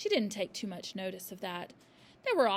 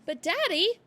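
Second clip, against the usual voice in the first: high loud plea; a girl trying to protest; pleading; 10 semitones higher, 10 dB louder than usual. A narrator's reading. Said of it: "Matilda began".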